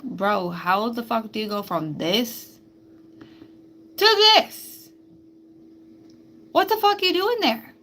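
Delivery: building to high, loud disbelief; incredulous outburst. Acted. Quizzing a caterpillar about its transformation, loudly incredulous.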